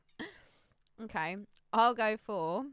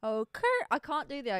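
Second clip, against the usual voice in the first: imitating a friend's noise; 5 semitones higher than usual. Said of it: "that noise".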